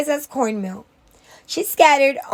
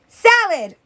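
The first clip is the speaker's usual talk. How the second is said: sudden realisation; 6 semitones higher than usual. A narrator's reading. Remembering forgotten salad.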